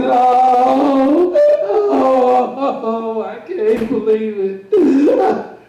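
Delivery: man shaved bald, mock sobbing in the hall; mock crying. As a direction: wail it out, slow at the end. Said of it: "he's crying".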